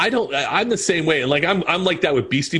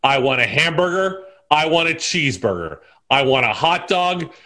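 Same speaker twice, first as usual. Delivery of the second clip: Caddyshack quote; 2 semitones higher than usual. Retold or imitated. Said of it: "I will do".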